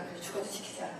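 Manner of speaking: voiceless whisper to herself; quietly whispering a promise to God; hushed resolve. Retold or imitated. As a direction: breathe the vow out under your breath.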